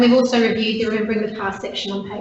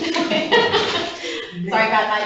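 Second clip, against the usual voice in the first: laughing; much slower than usual. Real, not acted. Embarrassed over microphone trouble.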